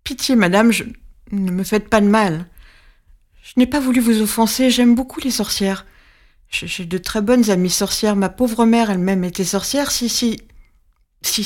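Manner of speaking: a hint of begging the witch; pleading. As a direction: beg for mercy, tripping over words. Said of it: "je me mets à supplier".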